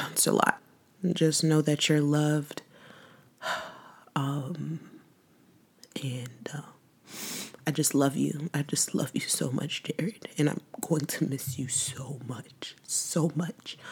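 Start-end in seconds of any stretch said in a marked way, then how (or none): 0.1-0.6 choked up. Real, not acted. Grief overwhelms speaker. 4.1-13.8 soft, tearful whispered farewell; tearful goodbye. Real, not acted. Whispered goodbye to late brother.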